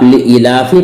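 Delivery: लिईलाफि with a short second i; common wrong reading. Shown as a demonstration. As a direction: pass quickly over the "ee" in लिईलाफि. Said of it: "या आप पढ़ ही नहीं रहे". (लिईलाफि में ई छोटी, ग़लत)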